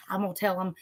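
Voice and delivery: husband's sly whispered aside; teasing whisper mimicking her husband; mock whisper. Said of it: "My husband's like".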